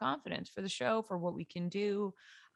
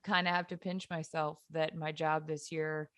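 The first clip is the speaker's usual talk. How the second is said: hoarse, raspy voice from yelling; smoker's rasp. Real, not acted. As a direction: rasp through every word. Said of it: "if I sound like I've been smoking packs of cigarettes for forty years".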